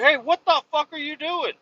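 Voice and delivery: retelling a worker yelling at the driver; angry retold yell. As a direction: bark it like an irate worker.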